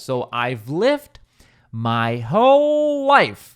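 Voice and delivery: a stunned reader's protest, hammed up; mock disbelief. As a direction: react in exaggerated disbelief. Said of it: "you're probably thinking".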